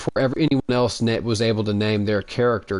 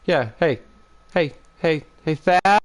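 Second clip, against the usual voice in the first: high-pitched shouting at the neighbor; high yell; 7 semitones higher, 4 dB louder than usual. Retold or imitated. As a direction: call out loud and high. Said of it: "Starts yelling".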